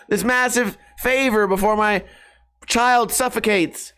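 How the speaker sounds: mock panicked friend. Imagined friend begging him to pick a lock, mock panic. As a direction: play a melodramatic damsel in distress. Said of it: "someone's gonna be like".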